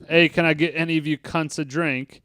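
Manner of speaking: lightly put-on English accent; friendly British pub request. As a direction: quote Ed in a casual English accent. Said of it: "I'm gonna put some English accent on it".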